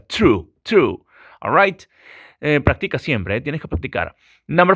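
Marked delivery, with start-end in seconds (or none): 0.1-1.0 "True" with a crisp, strong T; hard T on true. Shown as a demonstration. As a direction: snap the T in "True". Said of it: "la T es muy intensa". ("True" con T fuerte)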